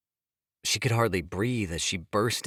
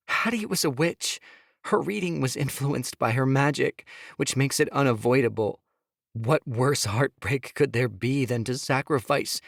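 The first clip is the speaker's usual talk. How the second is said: higher, pleading woman's voice; Sophia pleading; 5 semitones higher than usual. Acted. Wife begging husband to hear her, higher pleading. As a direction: plead with him, voice pitched up.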